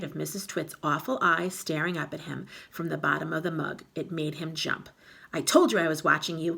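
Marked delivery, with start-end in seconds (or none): 5.3-6.6 loud gloating cackle; cackling. Acted. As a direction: cackle it out like a witch. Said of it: "cackled Missus Twit".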